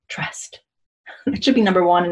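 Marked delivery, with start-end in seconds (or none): 0.1-0.6 "trust" whispered with no voice. Shown as a demonstration.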